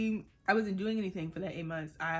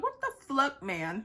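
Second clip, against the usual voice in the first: frustrated exclamation; 7 semitones higher, 4 dB louder, slower than usual. Retold or imitated. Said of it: "And I'm just like".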